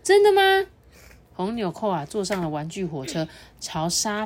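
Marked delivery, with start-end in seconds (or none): 0.0-0.7 excited. Acted. Button excited again.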